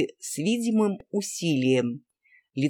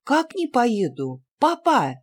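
put-on girl crying out to her father; 8 semitones higher, slower than usual. A narrator's reading. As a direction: protest in shocked disbelief. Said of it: "вскричала девочка".

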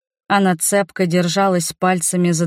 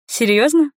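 smiling; 8 semitones higher than usual. A narrator's reading. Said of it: "улыбнулась матушка".

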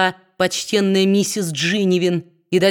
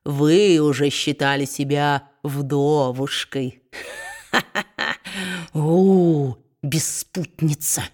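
low, slow mocking voice with a nasty laugh; sneering dwarf; 4 semitones lower, slower than usual. A narrator's reading. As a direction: jeer at her slowly, lower than the narration. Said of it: "ехидничал карлик". (злорадный низкий голос карлика со смешком)

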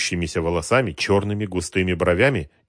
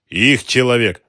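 spitting; 5 semitones higher, 9 dB louder, slower than usual. A narrator's reading. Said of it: "сплюнул Мамед Ага".

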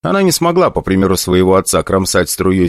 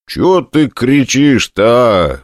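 weary; 4 semitones higher, much slower than usual. Acted. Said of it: "устало проговорил я".

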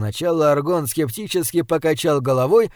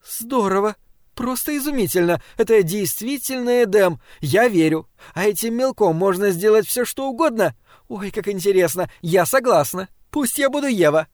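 put-on a young woman's voice rising higher and higher with delight; thrilled Eve; 4 semitones higher than usual. Eve thrilled by the magic chalk, gushing with excitement. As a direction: gasp over the magic chalk like a dream come true.

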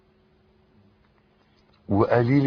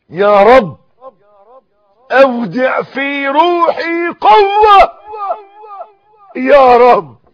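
slow, then much higher and louder; prayer building to a shout; 6 semitones higher, 12 dB louder, slower than usual. Shown as a demonstration. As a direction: start hushed and climb to a shouted plea. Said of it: "قول". (دعاء يبدأ هادئًا ويتصاعد إلى صراخ)

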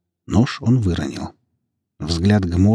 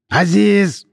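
higher, louder roar; 12 semitones higher, 5 dB louder than usual. A narrator's reading. Lame father roars at his son, bellowing. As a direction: bellow the son's name. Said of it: "взревел хромоногий Аббас".

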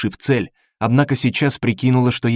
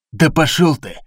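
snapped curse; 4 semitones higher than usual. Acted. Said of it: "бросил Денвер".

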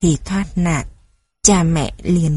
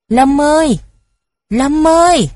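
high, loud call from afar; 7 semitones higher, 5 dB louder than usual. A narrator's reading. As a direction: call his name across a distance. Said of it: "Tiếng gọi vẫn tiếp tục".

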